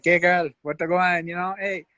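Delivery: lightly voiced street charmer; chatty mock self-introduction; Caesar. Imitating Caesar's chatty street pitch.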